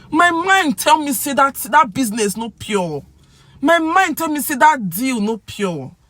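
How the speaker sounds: worked-up pidgin outburst; indignant suspicion. Pretend. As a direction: protest that your gut warned you. Acts out voicing a gut suspicion.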